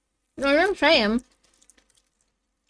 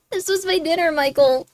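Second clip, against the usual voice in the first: mildly distraught, higher-pitched protest; 4 semitones higher than usual. Real, not acted. Streamer telling Michael that was their dinner, mildly distraught. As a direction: lament a lost meal, voice raised in pitch. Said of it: "You sound distraught".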